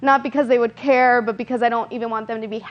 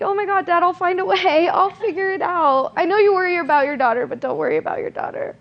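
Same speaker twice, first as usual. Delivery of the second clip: breezy reassurance; 6 semitones higher than usual. Retold or imitated. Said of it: "I'm like".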